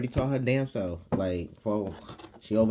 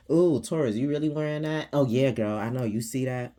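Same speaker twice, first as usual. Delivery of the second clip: catty mock friend; 3 semitones higher than usual. Mocking catty friends' remarks.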